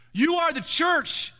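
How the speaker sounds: "are" stretched high and slow; stress on are. Acted. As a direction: lean hard on "are" in "You are the church". Pastor rebukes the congregation.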